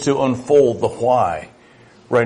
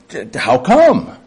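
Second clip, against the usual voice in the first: imitating a toddler; 5 semitones higher, 3 dB louder than usual. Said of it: "It comes out in toddlers".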